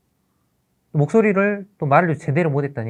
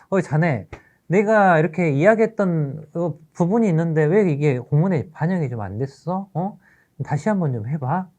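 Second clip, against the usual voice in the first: louder, higher reprimand from a boss; mild scolding; 5 semitones higher, 4 dB louder than usual. Acted. Principal to teacher over a missed document, mild scolding. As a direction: dress down a subordinate, lightly acted.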